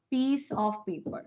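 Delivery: said slowly, word by word; slow careful model phrase. Shown as a demonstration. Teacher to students, dictating the correct sentence slowly. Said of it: "I want a".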